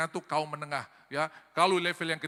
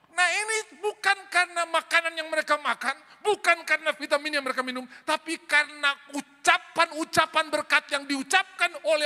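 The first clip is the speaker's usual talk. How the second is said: high, loud, driving sermon delivery; full-force preaching; 9 semitones higher, 7 dB louder than usual. Real, not acted. Preacher urging parents to bless their children, full-force preaching.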